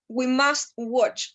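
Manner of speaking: we must watch, each word stretched out; slow model phrase. Shown as a demonstration. Teacher modelling an example sentence slowly. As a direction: say it slowly so they can copy. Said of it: "teacher modelling the phrase".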